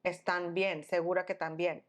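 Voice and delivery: low, unbothered retold question; super calm. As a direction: imitate a calm, casual check-in. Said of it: "super calm".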